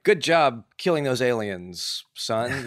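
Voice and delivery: slow, loud over-the-top dad cheer; cheesy dad praise. Retold or imitated. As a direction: ham up a gung-ho gamer dad. Mock gamer dad praise.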